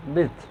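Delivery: विड्थ with the D barely touched; quick, swallowed D. Shown as a demonstration. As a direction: slip past the D in विड्थ. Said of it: "द थोड़ा जल्दी बोलना होता है". (विड्थ में द जल्दी से बोलें)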